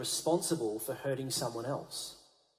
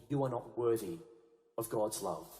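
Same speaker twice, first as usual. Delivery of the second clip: hushed, softer taunting inner voice; lying voice; 9 semitones lower, 6 dB quieter than usual. Acted. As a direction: drop into a sly quiet lie. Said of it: "that lying voice that can sometimes whisper".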